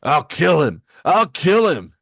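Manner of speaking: repeated raging threat, escalating; enraged yell. Acted. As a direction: rage while being held back. Villain raging as he is restrained.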